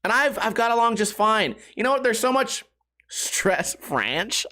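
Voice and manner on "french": French echoed as a questioning "franch"; amused slip repeated. Real, not acted. Comedian puzzling over own slip, questioning "franch" for French. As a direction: echo French to rhyme with ranch, lower and rising. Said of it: "I'm still laughing at French".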